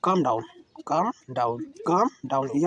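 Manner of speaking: "calm" said as kaam, no L sound at all; silent L. Shown as a demonstration. Teacher drilling students to say it without the L. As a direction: drop the L in "calm", just kaam down. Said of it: "एल जो है silent है".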